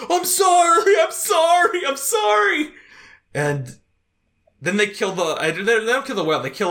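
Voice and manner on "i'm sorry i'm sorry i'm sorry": high, louder frantic pleading "I'm sorry"; panicked repeated apology, far higher; desperate pleading. Retold or imitated. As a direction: plead for your life in a high wail. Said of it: "Spider's like".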